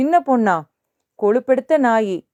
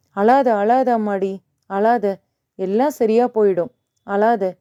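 gentle consoling. Acted. Old man comforting the weeping girl, gently consoling. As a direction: soothe someone who has begun to cry.

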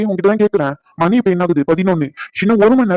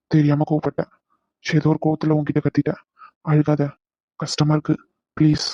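tender comfort; 2 semitones lower than usual. Acted. Husband consoling his crying wife, tender. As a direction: soothe her gently.

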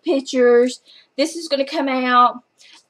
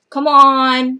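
scolding, louder on the repeat; louder come on; 6 dB louder than usual. Shown as a demonstration. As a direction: push the second come on harder. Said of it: "mock scolding the publisher".

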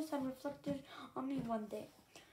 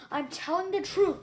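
firm, louder insistence; insisting loudly; 4 semitones higher, 7 dB louder than usual. A narrator's reading. Strongwings insisting to Mauser, loud and firm. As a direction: plant your feet and insist. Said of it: "he insisted loudly".

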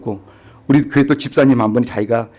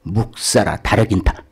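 demon's man voice; 6 semitones lower, 3 dB quieter, slower than usual. Retold or imitated. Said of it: "남자 목소리로 바뀌는 거야".

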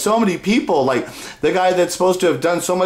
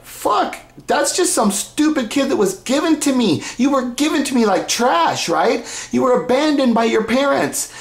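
higher-pitched mock disdain; imagined contempt; 5 semitones higher than usual. Father dismissing the son given to him, mock contempt. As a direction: voice a scornful father, imitating. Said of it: "So in his eyes, he's like".

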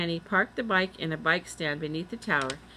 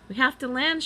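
high, raised-voice call; urgent shout; 6 semitones higher, 4 dB louder than usual. A narrator's reading. Boy on a flying bike near the tower, shouting. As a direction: call out over the rush of air. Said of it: "shouted Jack".

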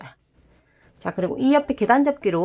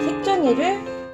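high cute voice; 9 semitones higher than usual. Acted.

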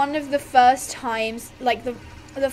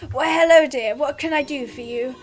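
lightly voiced granny greeting; a hint of kindly old granny; toned-down granny, close to own voice. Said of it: "I can do my granny voice".

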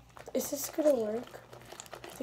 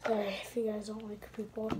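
whispering; 5 dB quieter than usual. Real, not acted. Whispered apology on video.

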